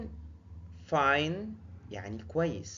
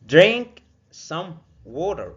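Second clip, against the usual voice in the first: slow, louder DRINK leading the order; stress on drink; 5 semitones higher, 11 dB louder, much slower than usual. Shown as a demonstration. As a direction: urge them to drink. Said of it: "teacher models a command". (أمر بطيء بتشديد)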